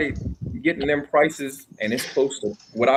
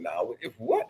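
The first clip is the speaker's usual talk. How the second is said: put-on Bahamian accent; 8 semitones higher, 7 dB quieter than usual. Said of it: "I hit 'em with my Bahamian accent".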